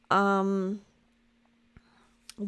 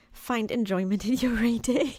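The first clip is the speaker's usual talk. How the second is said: teary laugh; 3 semitones higher than usual. Real, not acted. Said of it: "So I cry with a happy, with a happy smile".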